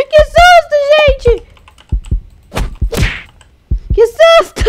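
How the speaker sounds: high, loud, breathless cry; laughing fright. Real, not acted. To her viewers, still shaken by the scare, high squeals.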